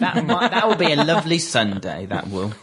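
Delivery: amused sarcasm, dropping at the end; sarcastic. Real, not acted. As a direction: say it with a hint of sarcasm. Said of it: "I detect a hint of sarcasm".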